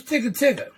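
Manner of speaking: Tigga Tigga with each of its four syllables cleanly separated; the right way, every syllable spoken. Shown as a demonstration. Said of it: "So I use".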